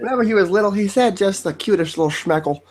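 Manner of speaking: high-pitched reminiscing Jewish granny; mock doting Jewish grandma; old Jewish woman. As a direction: coo fondly in a high old-lady voice. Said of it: "sound like an old Jewish woman".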